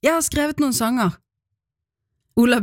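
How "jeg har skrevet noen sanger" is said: higher-pitched, shyly proud announcement, lightly acted; a little proud, nervous. Child announces songs to two adults, a little proud and nervous. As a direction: retell a child's slightly nervous pride, pitched up. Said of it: "Og jeg sa det høyt, litt stolt, litt nervøst".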